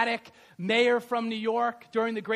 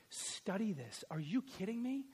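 usual speaking voice

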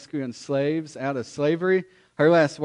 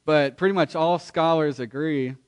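preaching. Acted. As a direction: preach it out to the whole room. Pastor preaching to congregation.

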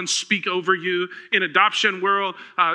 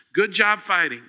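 encouraging. Retold or imitated. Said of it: "God looks at you and says this".

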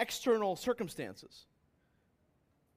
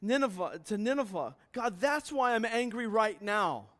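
louder, preaching Jonah's indignant complaint to God; angry Jonah; 3 semitones higher, 5 dB louder than usual. Acted. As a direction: make Jonah's grievance ring out. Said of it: "Jonah is saying".

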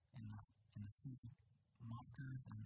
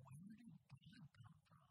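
high, soft wondering question rising on "God"; childlike wonder; 9 semitones higher, 10 dB quieter than usual. Retold or imitated. Pastor imitating his five-year-old self, hushed and high. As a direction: ask "Where did God come from?" softly as a puzzled five-year-old. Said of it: "just being like".

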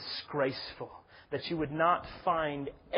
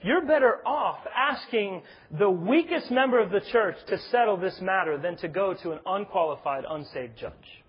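mildly sarcastic, higher and louder at the start; a bit of sarcasm; 4 semitones higher, 5 dB louder than usual. Retold or imitated. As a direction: make the pointed suggestion with a touch of sarcasm. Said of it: "using a bit of sarcasm".

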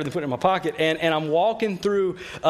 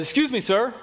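calling out across a store; retold call; 6 semitones higher than usual. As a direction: call to get a stranger's attention. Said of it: "yells and says".

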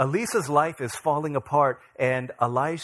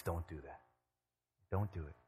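firm refusal; 9 semitones lower, 15 dB quieter than usual. Acted. David refuses to flee.

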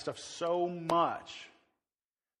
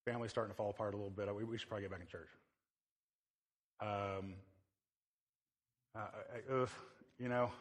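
quiet inner voice; 6 semitones lower, 5 dB quieter than usual. Retold or imitated. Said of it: "if you've ever thought".

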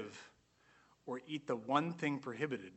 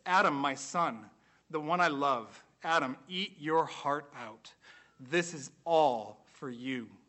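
a louder, slow, tender father voice; loving God's voice; 4 dB louder than usual. Acted. God speaks to Adam his son, louder and tender. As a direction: offer everything like a proud loving father. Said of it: "God is saying this to Adam".

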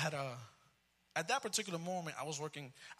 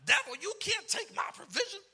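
much higher, loud commanding rebuke; stomping rebuke; 7 dB louder than usual. Retold or imitated. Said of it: "I was stomping everything".

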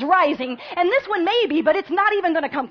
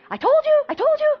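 higher, louder hammed-up gloating; mock i-told-you-so yell; 13 semitones higher, 7 dB louder than usual. Grumbling Israelite crowing at the others, mock yell. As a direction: crow it like the smug one in the crowd. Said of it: "the person in the crowd that's like".

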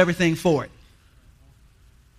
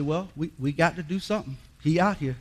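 voicing God; 4 dB quieter than usual. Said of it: "So God said".

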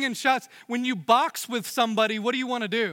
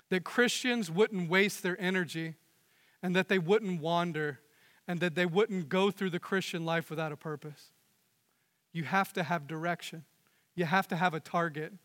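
hushed sincere appeal; soft earnest; 4 semitones lower, 6 dB quieter than usual. Acted. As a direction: lower and softer, earnest and intimate. Preacher drops to earnest softness.

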